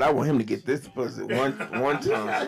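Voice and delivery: words squeezed through clenched teeth; through gritted teeth. Real, not acted. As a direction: speak with your jaw shut tight. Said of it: "I'm talking through my teeth".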